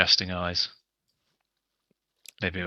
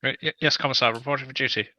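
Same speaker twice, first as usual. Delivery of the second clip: jittery high salute to an officer; twitchy trooper snapping to attention; nervous soldier voice; 6 semitones higher, faster than usual. Pretend. Twitchy soldier reports to commissar.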